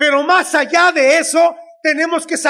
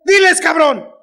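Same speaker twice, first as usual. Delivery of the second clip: mock insistent prompt, voice raised a little; 3 semitones higher, 3 dB louder than usual. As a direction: push the line out like an impatient prompter. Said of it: "me está soplando". (apuntador insistente, en imitación)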